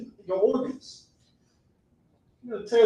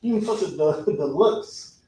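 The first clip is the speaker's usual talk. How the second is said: mock relish; slower than usual. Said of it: "who look at squid and be like".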